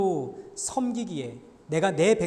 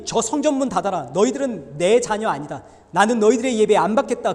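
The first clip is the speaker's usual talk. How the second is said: stern divine rebuke; 3 semitones higher, 8 dB louder than usual. Acted. God shuts the temple gate.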